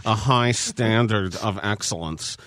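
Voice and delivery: solemn coach's pep speech. Pretend. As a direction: speak like Coach K addressing the team. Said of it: "can you do so in your Coach K voice".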